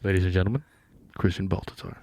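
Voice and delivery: low, quiet impression of Christian; deep-voice impression. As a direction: drop low and do his voice. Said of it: "you have a deeper voice".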